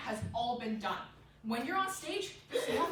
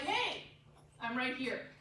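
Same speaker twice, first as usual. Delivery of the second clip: fearless rabbit; slower than usual. Acted. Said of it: "if a rabbit saw a fox".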